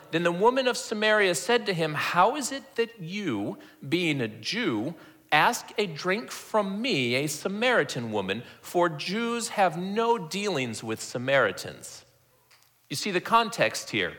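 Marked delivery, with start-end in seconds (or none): 0.1-12.0 slow, measured Bible reading; scripture reading. Acted. Preacher reads the woman's reply to Jesus, slow scripture reading. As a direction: read it out slowly, stretching the phrases.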